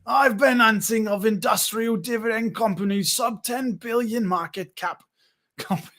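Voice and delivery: put-on a jokey mash of accents, vaguely New York; goofy put-on voice reading a chat comment; Dan's imagined voice. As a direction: ham up a viewer as a Seinfeld-type guy. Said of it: "This is what Dan sounds like in my mind".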